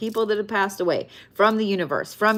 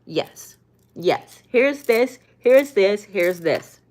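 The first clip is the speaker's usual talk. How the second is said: lightly voiced, giddy universe handing out gifts; the universe eagerly answering your prayers; 2 semitones higher, slower than usual. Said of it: "the universe finally is like".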